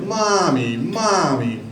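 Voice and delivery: put-on lightly childlike, falling mommy calls; little girl whining. Little girl in line pestering her mom, childlike. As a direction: tug at mom with the word. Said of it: "She's like".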